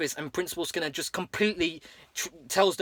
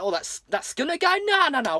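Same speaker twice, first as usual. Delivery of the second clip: mobster dismissing; 10 semitones higher than usual. Retold or imitated. Fat Tony waving off the question, voiced high. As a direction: brush it off like a mob boss. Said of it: "And he's like".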